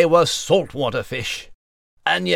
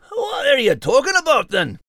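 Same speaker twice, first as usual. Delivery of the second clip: exasperated outburst; 11 semitones higher than usual. Acted. Confused outburst at Liz.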